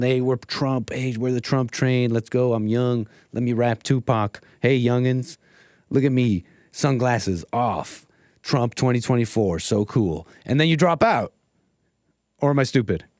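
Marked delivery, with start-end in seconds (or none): 0.0-10.3 lower, swaggering fake-cool voice; lightly voiced try-hard youngster; mock cool candidate. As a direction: brag like a try-hard politician. Streamer imagines candidate's bragging.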